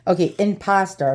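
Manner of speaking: impasta with a New York twang; lightly put-on New York accent. Shown as a demonstration. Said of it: "I have a bad, uh, a bad New York accent".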